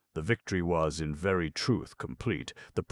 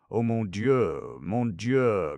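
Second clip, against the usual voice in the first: anxious prayer; 6 semitones higher, 6 dB louder, much slower than usual. A narrator's reading. Colombe praying in fear.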